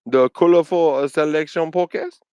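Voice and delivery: a slow, lightly put-on Korean accent; slow mock Korean accent, only lightly voiced; half-hearted Korean accent on the podcast name. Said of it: "That was my Korean accent".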